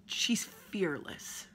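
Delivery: slow whisper for emphasis. Real, not acted. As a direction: whisper it slowly.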